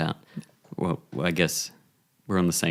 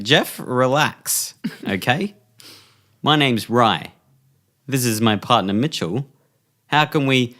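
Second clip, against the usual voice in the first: higher, slow and soothing at first; calming negotiator; 5 semitones higher, slower than usual. Acted. Negotiator introducing himself to Jeff, raised and calm. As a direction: talk him down gently. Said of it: "And you're like".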